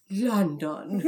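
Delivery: mock attempt at an English accent; hesitant, bad English accent; failed English accent. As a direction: imitate a botched English accent with a laugh. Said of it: "And I couldn't do the accent".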